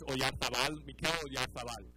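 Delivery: Spanish-accented name inside English speech. Real, not acted. Pundit copying match announcers, Spanish accent. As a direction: say the player's name with Spanish pronunciation. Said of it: "I'm saying it with a Spanish accent".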